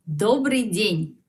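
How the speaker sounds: Добрый день said slowly and clearly; slow teacher model of Добрый день; slow model phrase. Shown as a demonstration. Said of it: "por la tarde". (despacio, para repetir)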